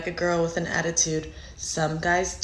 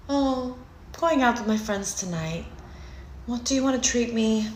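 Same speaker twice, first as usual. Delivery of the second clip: sweet asking voice; 3 semitones higher, 5 dB quieter than usual. Retold or imitated. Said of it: "You have to say something like".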